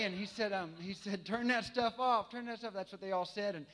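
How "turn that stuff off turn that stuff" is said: mock shout. Retold soldiers yelling at music.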